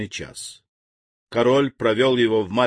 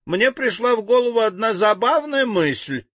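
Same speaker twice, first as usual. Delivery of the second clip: much higher, tittering nervously; nervous giggle; 10 semitones higher than usual. A narrator's reading. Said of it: "нервно захихикал Ментахо".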